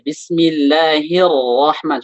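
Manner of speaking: Bismillahirrahman- slow, sukun ra heavy; thickened ra. Shown as a demonstration. Ustaz demonstrating again, Bismillahirrahman- with heavy ra. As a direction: model Bismillahirrahman- with a full heavy ra. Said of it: "Tinggal yang ra sebelumnya".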